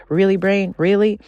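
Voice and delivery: body exasperated with the brain. Retold or imitated. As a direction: roll your eyes at the brain. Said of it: "And body's like".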